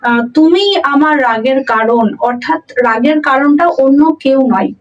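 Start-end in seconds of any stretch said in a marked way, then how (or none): 0.3-2.2 তুমি said with weight at the start; emphasis falls on তুমি; stress on তুমি. Shown as a demonstration. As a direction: lean on the word তুমি. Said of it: "তুমি, বা".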